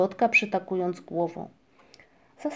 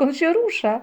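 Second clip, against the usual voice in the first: loud, raised amazed cry; shouting; 6 semitones higher, 6 dB louder than usual. A narrator's reading. Muminek sees the cloud move, shouting. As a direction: call it out high and loud. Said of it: "krzyknął Muminek".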